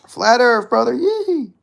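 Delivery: loud, high redneck whoop; hammed-up Southern holler; Bryce Mitchell. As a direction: yelp it like an excitable country boy. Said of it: "I gotta stop with the Bryce Mitchells".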